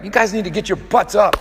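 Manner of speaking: mock coach yelling at lazy men; gruff men's meeting push. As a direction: bark them into gear, half in jest. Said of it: "you'll get language like".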